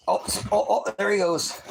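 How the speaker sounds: high, loud excited cry; excited exclaim. Real, not acted. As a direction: cheer as the dog takes off. Dog bolting.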